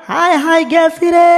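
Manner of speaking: comic ouch cry; yelp of pain. Acted. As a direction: cry out as the thorn pricks you. Tom pricked by a thorn.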